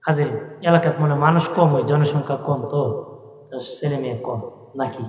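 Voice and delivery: ordinary talk, nothing marked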